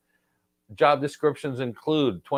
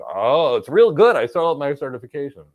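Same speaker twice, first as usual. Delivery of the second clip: mocking candidate; 6 dB louder than usual. Mocking a clueless job candidate.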